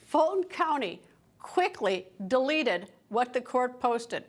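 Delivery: slowed, deliberate words on Fulton County quickly deleted; slow emphatic repeat. Shown as a demonstration. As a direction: lean on each word, slowly. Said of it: "but let me repeat".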